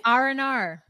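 Australian "oh no" as "R and R"; Australian woman's accent. Shown as a demonstration. Friend practicing the phrase on request, Australian woman's accent. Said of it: "get into an Australian woman's accent".

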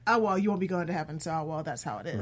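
quick, offhand brush-off; dismissive. Retold or imitated. Fan quoting Dean's remark to his brother about heaven, dismissive. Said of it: "Dean so dismissively said".

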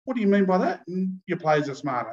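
a touch of annoyed Robbo. Acted. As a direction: bristle at the insult. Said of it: "Robbo was annoyed".

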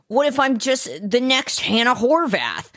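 imitating a character fretting about herself; mock anxious quote. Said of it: "she was like".

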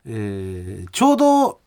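lively radio mail reading, pitch often lifted; listener mail read. Acted. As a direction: read the letter aloud with animated, performed emphasis. リスナーのメールを読み上げる. (抑揚をつけたメールの朗読)

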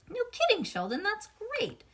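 high, excited teacher voice; bright teacher praise. Acted. Teacher cheers on Sheldon, high and excited. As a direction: gush over the student's news.

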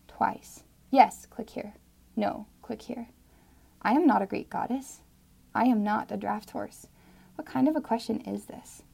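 dramatic spoken-word poem; poem reading. Acted. Listener reading her poem to the host, spoken-word style. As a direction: read the poem with feeling and rising resolve.

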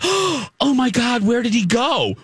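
imitating dim surprise; dumbfounded girl. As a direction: play the clueless girl, mildly shocked. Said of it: "She acted so dumb".

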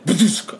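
a short thudding badoosk; imitated boom. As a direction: mimic a muffled blast. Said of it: "and then".

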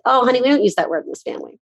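quick, light, offhand parental correction; very casual. Retold or imitated. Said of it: "very casually just said".

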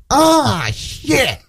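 high, thin, drawn-out cry of dismay; dad calling from afar. Retold or imitated. Dad behind fifty thousand people, imitated dismayed cry. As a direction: imitate a dad wailing from way back. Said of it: "you could hear my dad".

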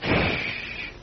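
unvoiced hush; shushing. Hushing near enemy.

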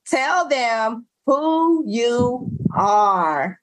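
slow, breathy stage whisper. Real, not acted. Host whispering slowly to nudge her guest. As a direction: hush it out slowly, like a coaxing aside.

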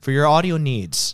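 slow, punchy ad read; hard sell ad. Pretend. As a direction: sell it like a radio spot. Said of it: "I'm reading it like an ad".

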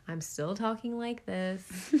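slow, even, calm delivery. Shown as a demonstration. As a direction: keep it steady and calm. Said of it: "keep in a calm voice".

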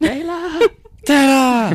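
put-on very high, shouted Japanese-accented name call; imitated Japanese grandma accent. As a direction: shriek the name as a hammed-up Japanese granny. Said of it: "do your Japanese woman accent".

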